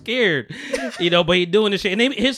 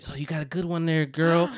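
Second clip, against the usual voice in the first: whispering; 7 dB quieter than usual. Retold or imitated. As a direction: lean in and whisper it. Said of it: "went over and whispers".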